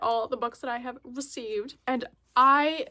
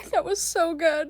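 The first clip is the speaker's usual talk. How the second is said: excited gush; 5 semitones higher, 4 dB louder than usual. Real, not acted. Just finished the movie.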